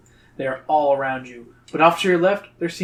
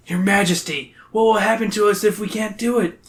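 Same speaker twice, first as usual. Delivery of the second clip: high, earnest character voice; brave questioner; 5 semitones higher than usual. A narrator's reading. Captive asks the king the penalty, high brave voice. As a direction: ask it high and bravely, at ordinary volume. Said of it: "you ask bravely".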